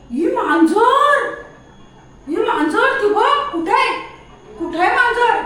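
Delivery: high, loud, urgent pointing-out; excited alert. Pretend. Owner telling the dog a cat is here, excitedly. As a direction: rouse the dog with drawn-out, sing-out cries.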